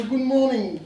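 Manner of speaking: English greeting. Acted. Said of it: "vous parlez le français à la perfection et sans accent".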